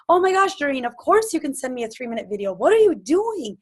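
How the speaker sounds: excited friend. Retold or imitated. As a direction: gush like a thrilled friend who just heard the news. Imagined friend reacting with enthusiasm.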